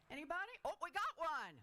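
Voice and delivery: loud call into the crowd; calling from far away. Real, not acted. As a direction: call across the room.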